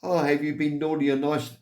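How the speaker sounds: a hint of a hammed-up Santa. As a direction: play Santa asking a kid from the roof. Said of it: "I'm sitting up there going".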